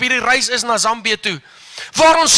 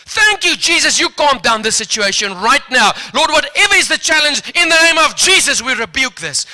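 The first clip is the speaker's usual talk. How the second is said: fervent prayer; 3 semitones higher, 4 dB louder than usual. Retold or imitated. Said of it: "Uit ons monde vloei die woorde".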